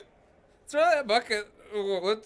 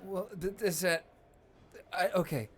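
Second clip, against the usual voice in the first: playing drunk and hiccuping; tipsy voice with hiccups. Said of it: "No, I'm hiccuping 'cause I'm drunk".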